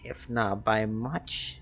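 put-on childish threat. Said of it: "have a sweet childish voice".

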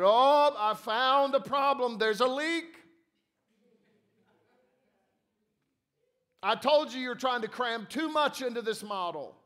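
high and loud, delighted 'Oh!'; the angel thinks she has found the flaw; excited discovery. A narrator's reading. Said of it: "and said".

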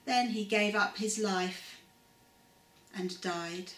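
calm storybook reading voice; story narration. A narrator's reading. Narrator telling children the crucifixion story, calm storytelling. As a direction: read it gently to children, steady pace.

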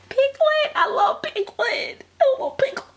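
very high cutesy squeal; adoring Piglet. Real, not acted. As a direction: coo the name high, savouring it. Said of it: "I like to say Piglet".

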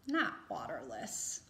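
low contrast. Shown as a demonstration. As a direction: drop low for not waterless. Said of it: "answer with the word".

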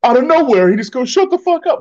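high-pitched imitation of an outraged complainer; mock indignant fan. Co-host mimicking a heckler who claims he was unprovoked, mock indignant. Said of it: "You're like".

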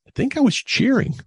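high, loud exaggerated cheer voice; hammed-up cheering yell; mock cheering shout. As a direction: belt it out like a sideline cheer. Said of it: "And I go".

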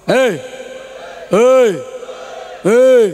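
sharp call to the listeners. Real, not acted. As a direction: shout hei to get attention. Preacher calls out to crowd.

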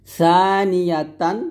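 tongue to upper teeth for the start of সানিয়াতান; thin tha. Shown as a demonstration. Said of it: "সা পাতলা".

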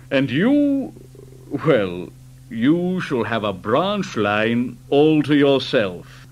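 low, pompous boss voice; fat director voice. Acted. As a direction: speak like a proud, portly director.

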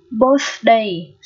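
"birthday" with a voiceless TH mid-word; tongue between teeth. Shown as a demonstration. Teacher shows learners the TH, carefully modelled. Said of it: "đây là lưỡi giữa răng".

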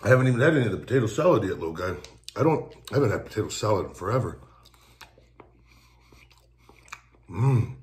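talking while chewing; eating between words; mouth full of food. Real, not acted. Seen 2: Spoons potato salad into mouth around 2.2s, chewing afterwards.

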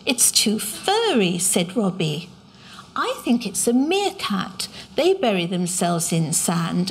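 lively read-aloud narration with voiced characters; story reading. A narrator's reading. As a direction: read it to an audience of children. Author reads her book aloud.

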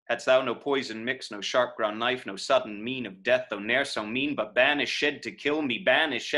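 steady, even beats with "banished" in three syllables; hammering verse. Shown as a demonstration. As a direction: hammer out each stress, sounding the ED of "banished". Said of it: "you can hear the hammer of this verse".

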